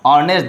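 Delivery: HONEST begun straight on the vowel; silent H. Shown as a demonstration. Teacher gives an example word, HONEST with silent H. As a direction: say HONEST as "onest". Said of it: "start with a silent".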